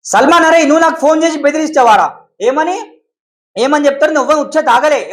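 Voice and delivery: loud, furious challenge; real angry shouting at a caller. Real, not acted. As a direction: yell at the man who threatened you. Furious address to the threatening caller.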